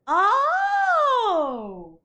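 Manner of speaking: high crying gasp of emotion; a choked, teary oh; real tears catching in the throat; tearful gasp. Real, not acted. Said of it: "I'm snotting up a storm from crying".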